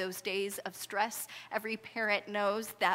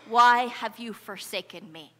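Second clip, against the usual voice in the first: loud anguished cry, pitched up; 3 semitones higher, 12 dB louder than usual. Acted. Jesus on the cross crying out loudly to God. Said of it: "he's gonna cry out".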